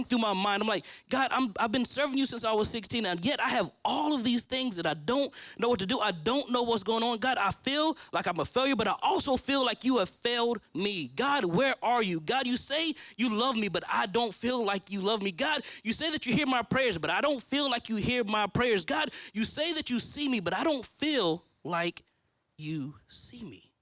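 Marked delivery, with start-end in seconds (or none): 1.1-20.4 retold fussing at God. Man retelling his anguished prayer to God, pleading and upset. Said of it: "me and God were having it out". 20.4-23.7 retold hurt prayer. Man retelling his complaint to God, hurt and slowing. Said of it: "me and God were having it out".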